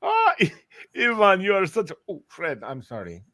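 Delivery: lightly voiced old man greeting; a hint of a doting old man. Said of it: "I'll say".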